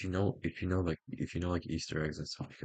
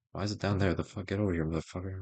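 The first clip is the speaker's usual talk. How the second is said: yelling; 4 semitones higher, 8 dB louder than usual. Real, not acted. Yelling at misplaced element.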